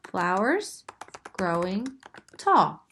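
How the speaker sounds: flowers growing tall broken into counted beats; counting syllables. Shown as a demonstration. Teacher counts syllables in her line. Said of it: "That is five syllables".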